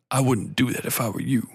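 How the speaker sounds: lightly imitated buttery warning; a hint of smooth, composed authority; Lance Reddick. Mystery man interrupts the heroine, lightly imitated smooth warning. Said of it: "his voice is so fucking buttery".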